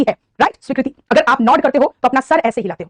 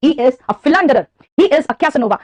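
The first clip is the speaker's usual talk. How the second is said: mock scolding; much slower than usual. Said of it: "तो मैं कहूंगी".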